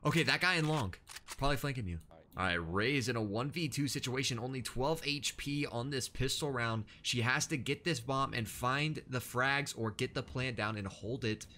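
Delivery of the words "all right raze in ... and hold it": esports caster. Acted. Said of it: "you're pretty good at casting".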